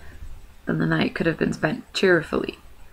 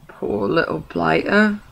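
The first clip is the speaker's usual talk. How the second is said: pitying troll; slower than usual. Acted. William pities the hobbit.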